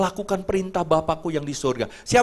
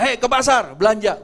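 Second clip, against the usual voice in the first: a sharp, louder command, pitched up; bossy order; 4 semitones higher, 4 dB louder than usual. Retold or imitated. Wife barking orders at husband to go shopping, bossy.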